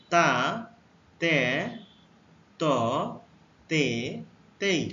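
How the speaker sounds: teacher modelling তা তে ত তে তেই; letter sounds demo. Shown as a demonstration. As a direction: model তা তে ত তে তেই with a pause after each. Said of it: "টি এর উচ্চারণ হবে".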